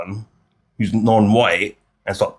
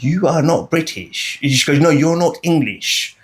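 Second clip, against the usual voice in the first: higher and slow, mimicking an elderly caller; slow, higher impression of an old woman caller; 5 semitones higher, slower than usual. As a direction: imitate the old lady phoning in, slow and prim. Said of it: "some old woman rang up and said that".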